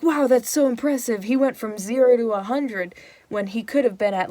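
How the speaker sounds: mock amazed praise. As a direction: gush like an impressed crowd. Everyone praising Hal later.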